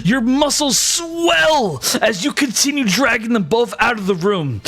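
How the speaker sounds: animated, dramatic narration with emphatic key words; lively tabletop storytelling; game master scene setting. Acted. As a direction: narrate the action with rising excitement.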